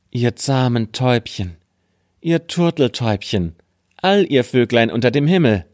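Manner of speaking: a gentler second call. Acted. (leicht gehobener Ruf an die Vögel)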